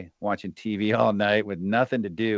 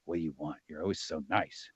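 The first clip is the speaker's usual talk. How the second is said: suspicious; 4 semitones lower, 10 dB quieter than usual. Retold or imitated. Suspicious of his nice wife.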